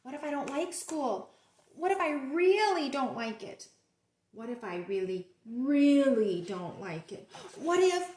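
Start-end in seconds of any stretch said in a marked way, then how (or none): 1.7-8.1 louder and louder fretting; getting worked up. Acted. Pigeon worrying about school, rising panic. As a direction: build the worry up.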